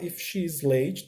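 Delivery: slow, soft and clear; slow teacher read-aloud; slow model reading. Shown as a demonstration. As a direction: read slowly for learners. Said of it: "ao invés de estar".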